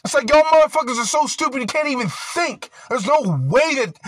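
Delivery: real anger rising to a loud high shout; furious rant. Real, not acted. Ranting at people he blames, building to a loud angry shout. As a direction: yell it at them, fed up and furious.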